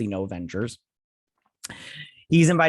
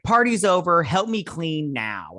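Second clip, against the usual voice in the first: mock panicked son; 5 semitones higher, 3 dB louder than usual. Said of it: "so he's like".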